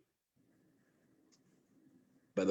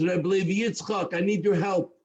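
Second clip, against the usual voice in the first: higher-pitched anxious appeal; distraught plea; 5 semitones higher than usual. Retold or imitated. Man rushes into shul to the rabbi, distraught. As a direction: retell an upset man asking for help. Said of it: "distraught, nervous, upset".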